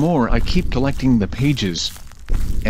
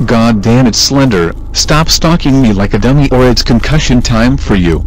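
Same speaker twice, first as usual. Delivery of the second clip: angry; 4 dB louder than usual. Acted. Fred rages at the game.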